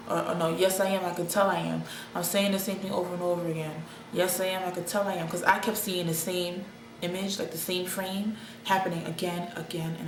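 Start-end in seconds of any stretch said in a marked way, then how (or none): 0.3-5.3 loop the words flat like a broken record; monotone voice. Retold or imitated. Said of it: "I'm talking in a monotone voice".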